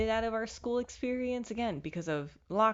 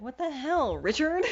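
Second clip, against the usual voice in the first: higher and louder, fed-up cry; exasperated outburst; 8 semitones higher, 4 dB louder than usual. Retold or imitated. Vlogger voicing her fed-up self at bad luck, high and loud. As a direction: throw it out in exasperation. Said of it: "if you know the sound".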